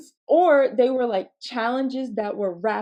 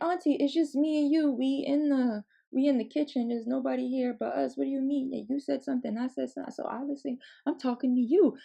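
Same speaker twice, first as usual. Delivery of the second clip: put-on higher, softening kid reasoning; puzzled child; 4 semitones higher, 3 dB quieter, faster than usual. Child explaining the obvious to auntie, lightly acted puzzlement. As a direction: reason it out in a lightly voiced kid's tone.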